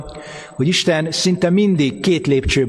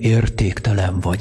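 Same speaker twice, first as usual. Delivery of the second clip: very deep, low devilish voice; 7 semitones lower than usual. Describing how the devil insults people, the speaker demonstrates: devilish voice. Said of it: "ilyen ördögi hangon".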